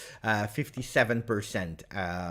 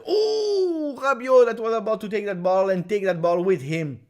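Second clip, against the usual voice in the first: excited outcry; 9 semitones higher, 5 dB louder than usual. Real, not acted. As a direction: cry out at a near chance, pitched high. Reacting live to a near chance.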